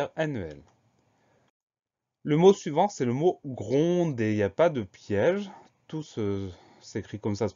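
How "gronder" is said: gronder drawn out slowly as gron-der; syllable by syllable. Shown as a demonstration. Teacher introducing the next spelling word, syllable by syllable. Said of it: "Première syllabe".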